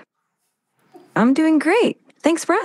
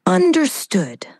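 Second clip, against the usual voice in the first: breathy dramatic whisper; 5 semitones higher than usual. Acted. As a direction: whisper it slowly.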